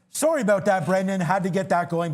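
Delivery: breathless after a rush; winded, talking between breaths. Real, not acted. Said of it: "I can catch my breath now".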